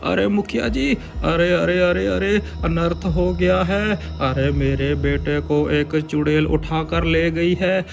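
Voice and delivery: high frantic pleading voice; panicked father. Acted. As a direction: beg for help in a panic. (घबराया हुआ पिता)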